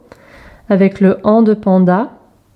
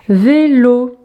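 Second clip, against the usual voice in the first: "Vélo" in two separated beats; drawn-out teacher's demonstration; syllable by syllable; 3 semitones higher than usual. Shown as a demonstration. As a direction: stretch each syllable for young readers. Exercise word for young readers.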